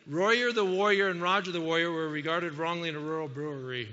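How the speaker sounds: a light mumbling wah-wah reading of the twister; Charlie Brown's teacher. Shown as a demonstration. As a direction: read it like a muffled cartoon teacher. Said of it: "sounds a lot like Charlie Brown's teacher".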